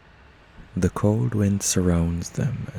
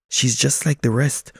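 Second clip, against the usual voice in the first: pigeon voice; 6 semitones higher, 4 dB louder than usual. Acted. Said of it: "one pigeon says".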